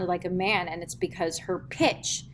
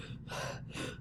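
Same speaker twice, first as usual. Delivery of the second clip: chest breath sigh; 15 dB quieter than usual. Shown as a demonstration. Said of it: "So instead of being like".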